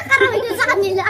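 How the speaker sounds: loud laughing through words. Real, not acted. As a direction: laugh out the line. Laughing after winning round.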